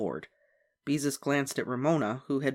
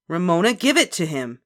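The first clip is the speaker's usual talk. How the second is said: louder, firm big-sister command; order; 4 semitones higher, 7 dB louder than usual. A narrator's reading. Big sister orders Ramona to hand it back, firm order. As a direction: order her firmly. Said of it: "ordered Beezus".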